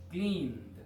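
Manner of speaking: cleaned said crisply as "klind"; cleaned, one syllable. Shown as a demonstration. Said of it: "debe de sonar como cleaned". ("cleaned" dicho como "klind")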